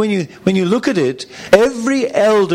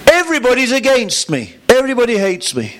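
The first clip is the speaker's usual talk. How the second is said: self-pitying Cain; 7 semitones higher, faster than usual. Acted. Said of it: "Can you see the voice of the flesh?".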